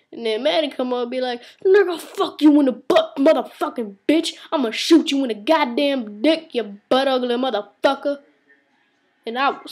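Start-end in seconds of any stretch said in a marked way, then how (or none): 1.7-8.2 imitating a furious tirade, louder and higher; hammed-up screaming insults; angry cursing rant. Retelling Maddie cursing someone out, loud and angry.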